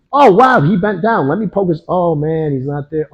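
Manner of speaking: high-pitched, hammed-up wonder, fading in volume; mock amazement. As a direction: play an exaggerated, delayed "oh wow" reaction. Acts out reacting too slowly.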